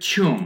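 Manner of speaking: "থুম" with a "yoo" glide, "thyoom"; corrected pronunciation. Shown as a demonstration. Teacher correcting the word tomb, "থুম" as "thyoom". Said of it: "এখানে হবে থুম".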